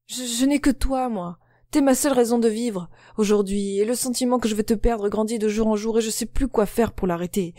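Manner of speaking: pleading. Acted. Pleading lover's confession.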